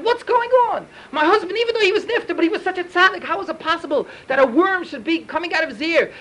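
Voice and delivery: wife alarmed at the worm in her husband's ear; terrified wife. Acted. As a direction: sound startled and upset at what she sees. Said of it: "she got terrified".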